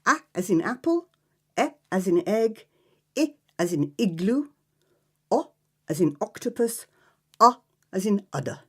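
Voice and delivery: each short vowel isolated then the word; teacher sounding out A, E, I, O, U; short vowel demo. Shown as a demonstration. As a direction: clear phonics drill. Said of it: "start with the short vowel sounds".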